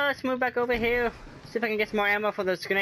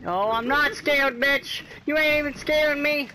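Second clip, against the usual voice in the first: taunting; 5 semitones higher than usual. Real, not acted. Taunting the boss mid-fight.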